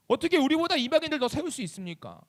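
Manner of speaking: mildly acted aggrieved question to God; betrayed protest. Israel protesting that Gentiles are favored, hurt and indignant. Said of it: "그 배신과 슬픔이 또 누구로 향할 줄".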